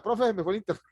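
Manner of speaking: mock excuse to teacher. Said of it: "apague todo y diga".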